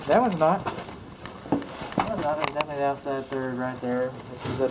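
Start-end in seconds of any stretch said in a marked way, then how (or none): 0.6-2.4 slow breathy whisper to himself. Real, not acted. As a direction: whisper it slowly, half to himself. Repeats his verdict in a whisper.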